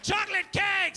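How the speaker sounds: hammed-up frenzied war cry; mock battle cry. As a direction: charge in yelling the decoy. Stabbing the intruder, battle cry.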